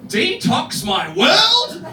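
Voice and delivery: high, slow, laughing disbelief; mock incredulous shout. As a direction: stretch it out in disbelief. Mocking silly smoothie names.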